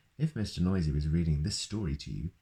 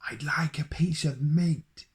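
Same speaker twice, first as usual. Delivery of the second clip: much higher, louder, slow booming voice; booming Mister Noisy; 10 semitones higher, 4 dB louder than usual. Acted. Mister Noisy orders bread from the baker, booming. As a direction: boom it out like a noisy giant. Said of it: "he boomed".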